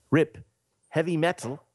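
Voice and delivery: lightly voiced puzzled rock star; a musician. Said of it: "And a musician goes".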